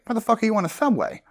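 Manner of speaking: high, indignant mock rant; imitating a mad stranger. Stranger on the subway berating the actor, mock angry. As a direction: play the stranger's outrage, a bit hammed-up. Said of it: "the guy was genuinely mad at me".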